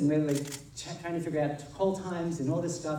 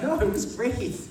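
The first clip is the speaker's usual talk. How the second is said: laughing high and loud through the words; 9 semitones higher, 5 dB louder than usual. Retold or imitated. Laughing as he reassures the actress it was great. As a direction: laugh it out, tickled.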